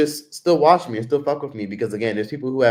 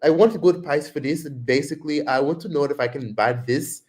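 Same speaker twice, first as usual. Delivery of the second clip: slowed, pitched-up Indian accent; imitated Indian accent; 4 semitones higher than usual. Shown as a demonstration. Showing chat how Tyler talks, mild Indian accent. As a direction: demo how Tyler bargains. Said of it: "That's how she talks".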